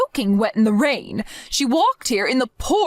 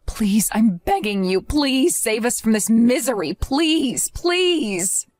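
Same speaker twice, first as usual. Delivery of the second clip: desperate begging; slower than usual. Acted. Christine begs for help.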